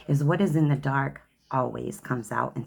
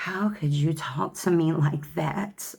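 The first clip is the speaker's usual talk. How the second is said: slow, higher wounded whine, lightly done; mock victim; 3 semitones higher, slower than usual. Ex who plays victim when confronted, mild mock wounded whine. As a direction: mildly mimic someone playing the victim. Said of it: "it's like, Oh".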